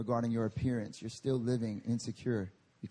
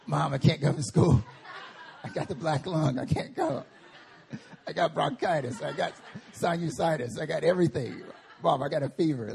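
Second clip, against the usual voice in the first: faking sick; 3 dB louder than usual. Retold or imitated. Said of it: "I was like".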